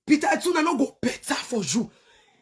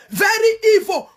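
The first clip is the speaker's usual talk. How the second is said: angry outcry; 5 semitones higher, 3 dB louder than usual. Real, not acted. Angry rant about the father.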